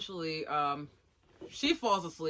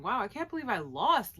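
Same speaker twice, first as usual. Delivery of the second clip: mildly amazed, a little higher and louder; mild disbelief; 4 semitones higher, 5 dB louder than usual. Retold or imitated. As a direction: voice a loser's stunned thought. Pondering his thoughts, thinking.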